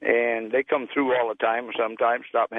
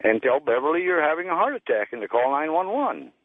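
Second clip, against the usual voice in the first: commanding inner voice; 4 semitones higher than usual. Retold or imitated. Mysterious voice giving orders.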